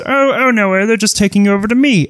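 high, quick sneering villain; smug villain voice. Acted. Game master voicing Prince Koopa to the captured party, high sneer. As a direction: gloat like a cartoon king. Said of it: "he says".

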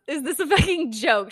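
mock outraged with a laugh in it; imitating a fed-up friend, half laughing; indignant. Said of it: "that was very much the tone".

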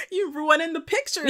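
high-pitched mock telling-off; playful high-voiced complaint; mock scolding. Mock scolding over spoiled photos.

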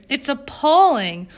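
loud, drawn-out indignation, pitch falling word by word; sputtering outrage. A narrator's reading. Jane outraged at Eleanor's mild reply, sputtering outrage. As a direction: hit each adjective hard, starting high. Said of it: "Jane sputtered".

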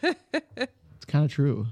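slow laughing tease. Real, not acted. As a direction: laugh out the words slowly. Teasing, laughing.

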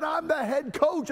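pompous head coach. Retold or imitated. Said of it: "He said".

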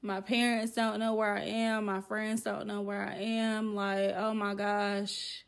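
retold quiet dread; near-tears worry. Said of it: "damn near in tears, 'cause I'm like".

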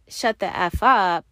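slow, measured telling-off; mild re-enacted anger; retold angry outburst. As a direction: spell out the rebuke slowly, without shouting. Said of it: "like that".

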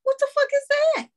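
high, baffled outburst; incredulous. Real, not acted. Co-host hearing a made-up word, baffled outcry. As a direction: throw it up high in disbelief.

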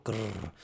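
a quiet mock mower rumble; mower noise. Shown as a demonstration. Trying to imitate his new mower starting, soft growl. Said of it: "That's me trying to do a mower noise".

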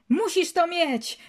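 high, stretched-out insistence; acted exasperated cry; mock shouting. A narrator's reading. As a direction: insist as if yelling, without full volume. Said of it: "krzyczał".

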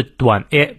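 short, open "a" sound. Shown as a demonstration. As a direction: say a short "a", not drawn out. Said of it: "注意是短a".

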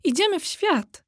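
spirited call to set off; exclaiming. A narrator's reading. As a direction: announce an adventure with resolve. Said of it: "zawołała biała dama".

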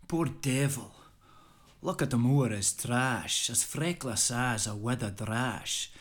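an amateur Scottish brogue, declaimed with gusto; a modest Scottish accent, performing the poem for a friend. Acted. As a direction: recite Burns in a lightly put-on Scottish accent. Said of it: "excuse the poor Scottish voice, but I think it needs to be said in a Scottish voice".

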